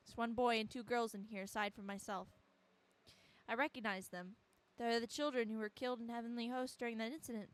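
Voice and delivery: earnest first-person narrator; measured, dramatic reading; story narration. A narrator's reading. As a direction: narrate the trapped character's account. Reads game narration aloud.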